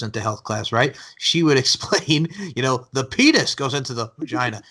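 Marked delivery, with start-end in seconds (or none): 2.9-4.6 the word "penis" leaned on; stress on penis. Retold or imitated. Retelling a health teacher's explanation, stress on "penis". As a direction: punch "penis" as the teacher did. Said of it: "She put the emphasis on the penis".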